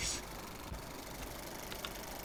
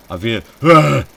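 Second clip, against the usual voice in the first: startled scream; 6 semitones higher, 11 dB louder than usual. Real, not acted. Jump scare.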